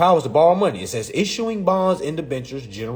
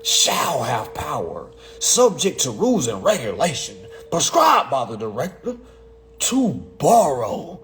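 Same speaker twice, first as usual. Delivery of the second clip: slow, deliberate statute reading; 2 semitones lower than usual. Shown as a demonstration. Reader breaking down the law for listeners, slow and deliberate. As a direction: stretch "shall" and "to borrow" slowly. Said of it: "Let me read it slower".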